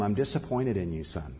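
quiet, calm letdown to a son; calm disappointment. Retold or imitated. Father calmly tells his son he is disappointed. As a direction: say it calmly, no yelling. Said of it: "I just very calmly said to him".

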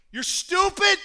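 a sneering jab thrown out, half mocked; mock scorn. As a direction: ape a smug churchgoer's insult. Mocking the church's scorn.

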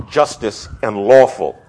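"justice" and "lawful" each stressed apart; contrastive stress. Shown as a demonstration. Lecturer contrasting two words for students, both stressed. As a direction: set "justice" firmly against "lawful". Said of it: "I want to make an emphasis between".

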